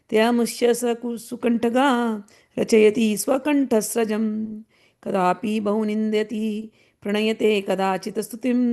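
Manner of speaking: measured, even verse recital in Sanskrit; Sanskrit verse recitation. Acted. Teacher recites a Sanskrit sloka to the class, measured recital. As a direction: recite the sloka steadily, like scripture.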